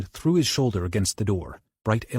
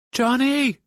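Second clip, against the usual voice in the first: much higher, louder yell; 5 dB louder than usual. Acted. Bobby yells for Johnny through the wall, loud. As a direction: yell his name. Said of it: "Bobby yelled".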